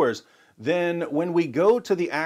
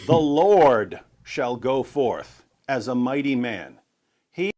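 solemn reading; 5 dB louder, slower than usual. Real, not acted. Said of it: "Isaiah forty-two thirteen".

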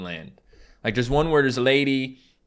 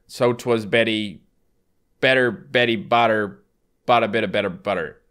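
punchy, rhythmic tongue-twister delivery; tongue twister recital; 4 dB louder than usual. Shown as a demonstration. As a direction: recite it carefully, punching the repeated B words. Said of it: "Can you recite the tongue twister".

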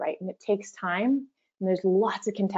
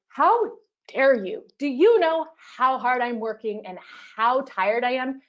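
indignant, offended outburst; aggressive response; 4 semitones higher, 4 dB louder, slower than usual. Shown as a demonstration. To a friend asking for moving help, an indignant how dare you. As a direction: snap back at a friend who asks too much. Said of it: "If I was being aggressive in response".

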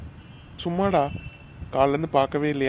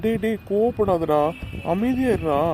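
put-on pleading, stretched-out hushing of an upset boy; urgent placating; 2 semitones higher than usual. Aunt begging her angry nephew to stay calm, urgent placating. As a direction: draw out the plea to calm him.

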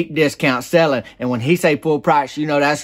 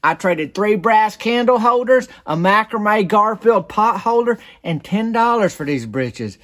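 Sybil explaining slowly; 8 semitones higher than usual. Retold or imitated. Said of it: "And she goes".

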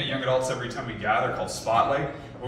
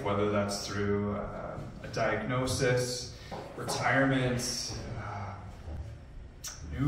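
prayer. Acted. Leads a closing prayer.

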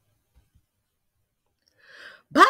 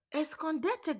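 hollered; 8 semitones higher, 7 dB quieter than usual. Acted. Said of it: "Grandma hollered".

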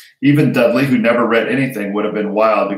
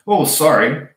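higher-pitched, unapologetic sorry; insincere apology; 6 semitones higher, 4 dB louder than usual. A narrator's reading. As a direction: say sorry without meaning it. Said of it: "not sounding sorry at all".

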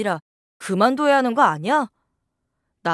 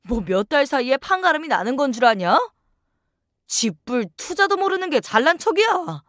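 angry shouting. Acted. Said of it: "소리를 지르며 화를 냈어요".

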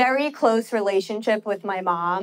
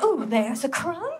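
slow, drawn-out dainty ballerina voice; ballerina searching for food; 3 semitones higher, slower than usual. Acted. Ballerina hunting crumbs on stage, slow and delicate. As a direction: coo over each find, slowly. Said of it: "like, searching for food".

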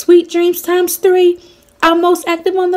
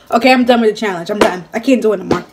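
laughing; 9 semitones lower, much faster than usual. Real, not acted. Laughs quitting the challenge.

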